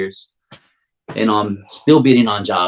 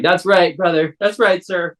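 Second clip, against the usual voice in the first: higher-pitched put-on mainland American accent; phony mainland accent; 8 semitones higher than usual. Local man answering a mainland contractor, phony mainland accent. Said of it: "gave him my best phony mainland accent".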